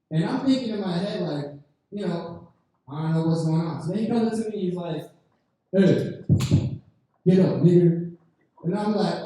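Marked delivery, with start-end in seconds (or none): 5.7-8.1 put-on loud barking order from a drunk; mock drunk shout. Drunk Russian guy yelling at the comic to get up. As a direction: bark it at him across the table.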